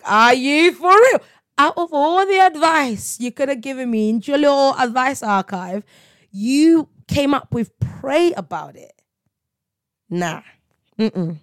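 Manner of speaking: mock the advice, unimpressed; sceptical scoff. Mocking friends who said pray about it, incredulous. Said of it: "I used to be like".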